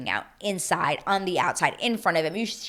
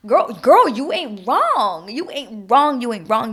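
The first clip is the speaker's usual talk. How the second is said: high, loud, drawn-out sing-song affirming; emphatic agreement; 4 semitones higher, 7 dB louder, slower than usual. Acted. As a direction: stretch it out high, cheering her on.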